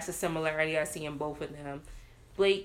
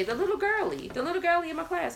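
put-on high-pitched little-kid voice; little daughter; 9 semitones higher, faster than usual. Little girl telling mom about a nameless classmate, imitated high child voice.

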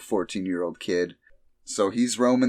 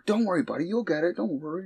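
higher, gentle soothing; comforting voice; 10 semitones higher, 3 dB quieter, faster than usual. Retold or imitated. Soldiers comforting the crying cell, high gentle voice. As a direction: coax him like a little kid. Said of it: "they're like".

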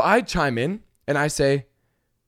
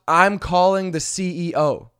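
mocking the entitled passenger's threat; mocking imitation; 2 semitones higher, 4 dB louder than usual. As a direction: ham up her self-importance. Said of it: "She dropped".

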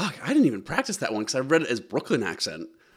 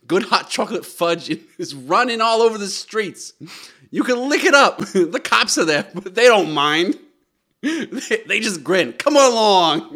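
loud, raised mock Boston accent; excited Boston child; 5 semitones higher, 7 dB louder than usual. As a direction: build to a shouted Boston kid's call. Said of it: "who has a strong Boston accent".

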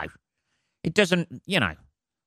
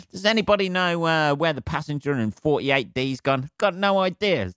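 higher voice, lightly acting clueless; mock innocent enquiry; 5 semitones higher than usual. Asking after a missing passenger, mock-innocent. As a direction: play someone innocently asking around.

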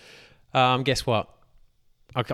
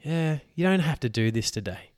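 soft whisper coaxing him to skip it; the lazy voice in his head, whispering; whispered temptation from his own mind; tempting inner whisper; 4 semitones higher, 4 dB quieter than usual. Retold or imitated. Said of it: "my mind's just saying".

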